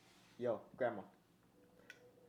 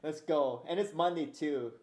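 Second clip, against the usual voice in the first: hyped up; 3 semitones higher, 5 dB louder, slower than usual. Real, not acted. Hyping chest day.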